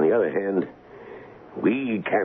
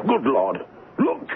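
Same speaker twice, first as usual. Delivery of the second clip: horrified exclamation; shocked discovery; 3 semitones higher than usual. Acted. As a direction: gasp it out at the sight of a body. Colonel finds the servant dead.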